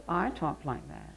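lightly mimicked odd way of talking; imitated speech quirk. Shown as a demonstration. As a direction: copy a schoolmate's speech quirk. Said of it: "talk like this".

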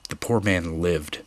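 plain reading voice

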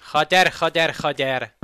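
loud frustrated swearing; angry shout. Real, not acted. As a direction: yell the curses. Enemy attacks, frustrated.

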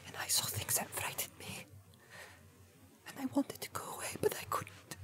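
halting whisper with long pauses; stammering. A narrator's reading. Hobbit confessing what frightened him, stammering whisper. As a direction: falter through it, barely audible and afraid. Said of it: "stammered Pippin".

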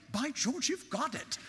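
high, light, hammed-up British accent; mock British accent. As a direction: exclaim it like a stage Englishman. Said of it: "I felt like saying".

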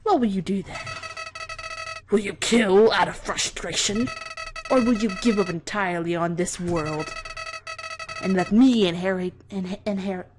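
lightly voiced sinister flower; a hint of a creepy flower gloating; Flowey villain read. Reads Flowey's speech.

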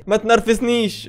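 giggling as you copy "ما تنرفزنيش"; laughing imitation. Host laughing as he copies the clip's line. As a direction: laugh through "ما تنرفزنيش" while mimicking the clip. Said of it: "وبيقولها بثقه قوي".

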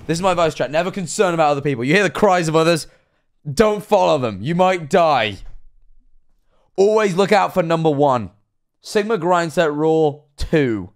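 emphatic mock-motivational speech; jokey guru laying down rules; mock life advice. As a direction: lecture the chat with pretend conviction.

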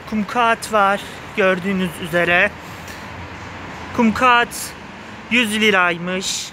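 normal talking voice

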